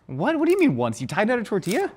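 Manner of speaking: surprised. Real, not acted. Shocked she tie-dyed before.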